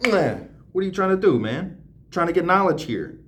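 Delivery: hammed-up pushy questioning; mock confrontation. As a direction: play-act demanding answers. Acts out confronting the evasive landlord.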